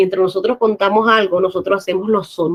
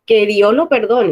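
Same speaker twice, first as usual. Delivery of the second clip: emoción; 3 semitones higher, 5 dB louder than usual. Shown as a demonstration. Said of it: "contando todo esto con una emoción".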